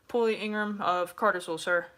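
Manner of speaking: loud, crisp recruit answer; sounding off. Retold or imitated. Recruit giving his name to the recruiter, loud. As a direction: announce your name to the recruiter. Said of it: "You're gonna say".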